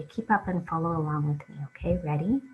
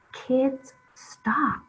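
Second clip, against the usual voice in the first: high, loud storybook yell; teacher yells; 9 semitones higher, 3 dB louder than usual. A narrator's reading. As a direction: call it out sharply like an angry teacher. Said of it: "The teacher yells".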